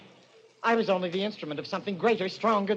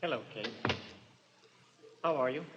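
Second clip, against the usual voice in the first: menacing calm; 7 semitones lower, 9 dB quieter, faster than usual. Acted. Killer's menacing arrival.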